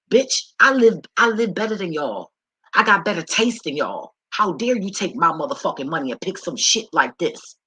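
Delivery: loud, high-pitched outraged rant; re-enacted angry confrontation; indignant telling-off. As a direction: tear into him, punching the words. Retold confrontation with her brother over money.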